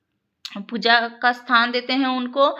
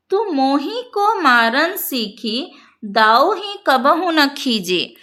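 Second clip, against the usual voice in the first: slow, drawn-out chanting of the verse line; slow devotional verse recital; slow verse recitation; slower than usual. Shown as a demonstration. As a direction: recite the poem line slowly and evenly. Recites verse, then explains it.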